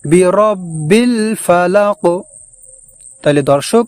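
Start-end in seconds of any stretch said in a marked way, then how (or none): 0.0-2.0 বিরাব্বিল ফালাক chanted slowly; slow Quran recitation. Shown as a demonstration. Teacher recites the corrected phrase, slow chant. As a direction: melodic drawn recitation. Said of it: "আমাদেরকে বলতে হবে".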